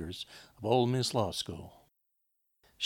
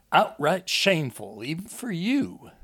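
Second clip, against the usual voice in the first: higher, louder reproach; indignant scolding; 6 semitones higher, 4 dB louder than usual. Acted. Enoch rebukes his wife over the attack, indignant. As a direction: scold her with rising indignation.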